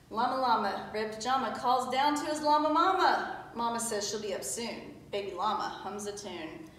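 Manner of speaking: put-on lilting read-aloud for small children; storybook reading. A narrator's reading. Teacher reading a picture book to pupils, storybook voice. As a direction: read it out in easy rhyme.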